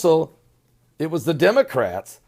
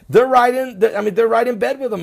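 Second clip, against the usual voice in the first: laughing scorn; 7 semitones higher, 3 dB louder, faster than usual. Real, not acted. Mocking the media.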